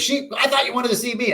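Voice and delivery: a dead father joking with his son; dad's voice. Retold or imitated. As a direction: toss it back playfully as his father. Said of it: "And he goes".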